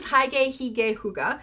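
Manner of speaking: "Hygge Hygge Hooga" as high-gay, hee-gay, hoo-gah; three pronunciations. Shown as a demonstration. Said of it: "I've heard it pronounced three different ways".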